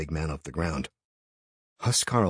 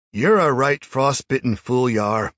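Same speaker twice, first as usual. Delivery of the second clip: loud sneering taunt; scornful; 7 semitones higher, 8 dB louder than usual. A narrator's reading. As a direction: sneer at the fool. Crowd mocking Jarl.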